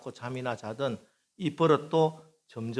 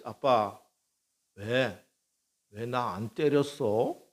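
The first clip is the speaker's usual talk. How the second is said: puzzled; much slower than usual. Retold or imitated. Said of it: "아주 이상한 듯이".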